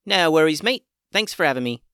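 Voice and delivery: high, loud cheery critter voice; breezy little critter voice; guinea pig voice. A narrator's reading. Guinea pig Fluffy replies.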